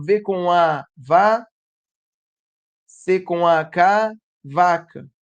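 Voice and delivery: slow, deliberate spelling, syllable by syllable. Shown as a demonstration. Teacher showing how a child spells out simple words, slow spelling. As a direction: spell it out with pauses before joining it. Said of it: "ela vai soletrar tudo".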